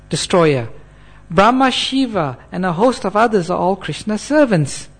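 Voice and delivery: measured, emphatic recitation; scripture reading aloud. Acted. Preacher reads sacred verse to students, emphatic recitation. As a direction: read it out as firm declaration.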